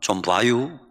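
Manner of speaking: low, brief Chungcheong-accented phrase; Chungcheong dialect. Shown as a demonstration. Preacher shows how short it is, in Chungcheong dialect. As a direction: say it like a Chungcheong local. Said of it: "충청도 말".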